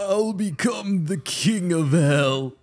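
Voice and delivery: put-on slow old man voice. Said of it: "old man voice".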